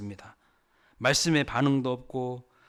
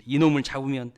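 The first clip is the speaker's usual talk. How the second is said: acted angry threat, building louder; 고래고래 으름장; 2 semitones higher, 9 dB louder than usual. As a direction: imitate a furious farmer vowing revenge. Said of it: "고래고래 막 지렀습니다". (성나서 으름장 놓듯)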